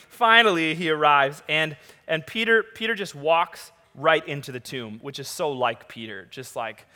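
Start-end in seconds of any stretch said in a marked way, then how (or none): none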